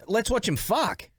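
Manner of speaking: slow, laughing through it; half-laughed mock blurt; laughing quote. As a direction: giggle out the blurted line. Quoting friend's slip.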